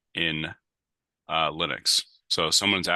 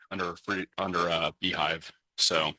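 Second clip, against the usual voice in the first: tinny mechanical audio. Real, not acted. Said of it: "your audio is very tinny and mechanical".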